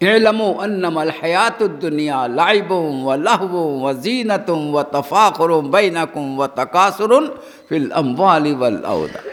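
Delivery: slow, measured Arabic chant; Quran recitation. Real, not acted. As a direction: draw out the long vowels as recitation. (ٹھہری ہوئی قرآنی تلاوت)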